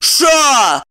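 Eva silencing her friend, sharp shout; sharp hush. A narrator's reading. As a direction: cut her off hard. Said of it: "осадила подругу Ева".

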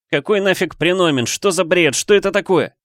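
angry shout. A narrator's reading. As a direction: yell at the computer, fed up. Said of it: "Выкрикнул я".

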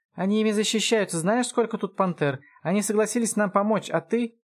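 high-pitched exasperated elf; outraged. Acted. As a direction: scold your would-be rescuer. Эльф ругает спасителя. (возмущённо, высоким голосом)

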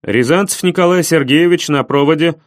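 clipped by-the-book officer; crisp military voice. Acted. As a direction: report it like a soldier. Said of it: "чёткий голос человека, привыкшего жить по уставу".

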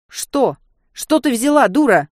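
harsh furious question; angry. Acted. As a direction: bark it at the foolish girl. Serge furious at her. (гневно, грубо)

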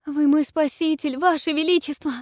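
high, loud twittering princess voice; chirping princess. Acted. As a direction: chirp joyfully like a sweet princess. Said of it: "радостно прощебетала княгиня".

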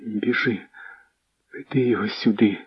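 barely able to speak. Acted. Pale princess Anna sending for the messenger, faint soft words. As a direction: force the words out, pale with fear. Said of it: "ледве вимовила".

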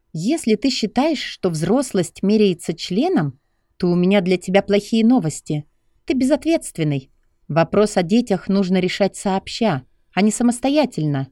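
high lecturing female voice; scolding young woman. Acted. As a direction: scold him like a careless kid. Lucy rebukes Stas.

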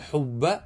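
حب said as hubba with a pure u; pure damma. Shown as a demonstration. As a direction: give حب a fully rounded u. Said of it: "بالضم الخالص".

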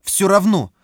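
put-on high shouting child; angry child. A narrator's reading. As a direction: yell it stubbornly. Boy insists.

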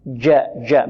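low, clean جاء; jim from mid-tongue. Shown as a demonstration. Teacher correcting where jim comes from, mid-tongue jim. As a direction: say جاء with the middle of the tongue, no d colour. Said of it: "من وسط اللسان".

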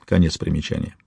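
usual speaking voice

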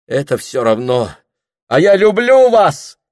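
high, loud declaration of love; a desperate love cry; shouted confession. Acted. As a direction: yell it out passionately. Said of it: "крикнул он".

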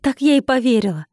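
sceptical, sarcastic grumble; grumbling. A narrator's reading. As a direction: scoff it in disbelief. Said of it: "проворчала я".

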